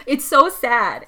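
slow, heavy "so" in a mildly choked lament; drawn-out lament. Real, not acted. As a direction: stretch it out as if near tears. Upset about the Pinocchio scene.

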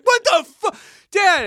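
high-pitched mock outrage; kinda mad. Son angry that dad spoiled his girlfriend visit, kinda mad. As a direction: imitate an aggrieved son's whine. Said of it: "I'm also kinda mad".

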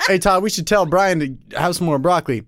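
line broken up by real laughter; laughing through the line. Real, not acted. Friend trying to read the broccoli line, laughing. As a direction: try to read it but keep cracking up. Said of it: "I'm laughing".

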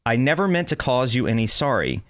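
flat emotionless robot read; monotone voice. Real, not acted. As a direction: read the lyric with no tune at all. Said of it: "the speaker's monotone voice".

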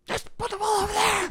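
squeaky high imitation of a bossy teammate; high mock voice. Teammate quoted telling her.

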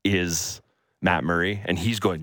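ordinary talk

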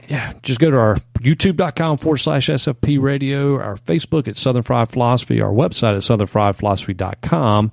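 running out of breath after a long list; winded, pushing the last words out. Real, not acted. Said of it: "Man, I'm running out of breath".

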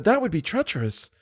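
high, firm refusal; refusing heroine. A narrator's reading. Christine refuses to give key.

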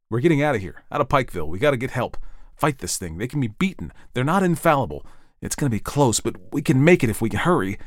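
rally the family to flee; urgent Ed. Acted.

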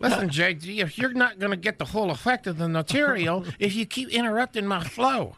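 lightly voiced dummy, lips barely moving; ventriloquist dummy voice. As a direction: keep the puppet voice going by mistake. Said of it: "Why are you still doing Knucklehead's voice?".

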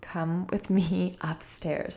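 soft, slow, reassuring invitation; quiet calm slow. Retold or imitated. Mother gently calling upset daughter upstairs, soft and slow. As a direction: ease the words out gently and slowly. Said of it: "So I just quietly, calmly, slowly said".

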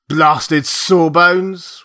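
put-on drunken sneer. A narrator's reading. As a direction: spit it out drunk and scornful. Drunk captain repeats sneer.

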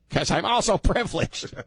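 high, gee-whiz mock white guy. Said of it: "let me use my white guy voice".

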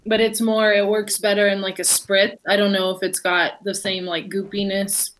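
talking round a candy; mouth full. Real, not acted. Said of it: "Sorry, I'm eating them anyway".

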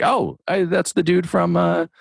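light up like a starstruck fan; excited recognition. Retold or imitated. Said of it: "And I was like".

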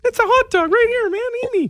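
tiny hot dog offering itself. Pretend. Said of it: "What does a hot dog's pretend voice sound like?".

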